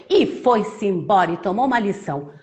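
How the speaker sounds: put-on lively story narration for children; animated storyteller, key words punched; children's storytelling. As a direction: tell it like a tale to little ones.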